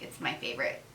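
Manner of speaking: breathy whispered aside. Shown as a demonstration. Whispering her favorite lotion to the viewer, hushed. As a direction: whisper it like a secret. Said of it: "whispered repeat of her verdict".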